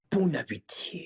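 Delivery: high, falling catchphrase; put-on high voice; catchphrase impression. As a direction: mimic an overheard catchphrase, starting high. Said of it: "sick of hearing, like".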